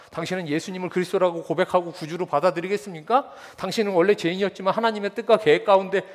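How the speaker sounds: stiff formal preacher tone; formal evangelist. Retold or imitated. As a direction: recite it like a tract. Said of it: "뭐 이렇게 하겠어요".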